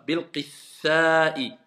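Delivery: Bil-qitha'i drawn out very slowly; very slow recitation. Shown as a demonstration. Teacher echoing the student, very slow. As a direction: spell out Bil-qitha'i syllable by syllable. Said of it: "il y a une shidda sur le tha".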